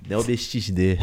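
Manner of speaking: light carioca accent; Rio accent. Shown as a demonstration. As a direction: say the name in a hint of Rio accent. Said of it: "eu tô peguei com esse sotaque de carioca".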